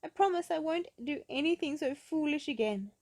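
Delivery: high, loud giggly promise; laughing. Acted. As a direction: promise through the tickling. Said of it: "laughed Little Miss Summersault".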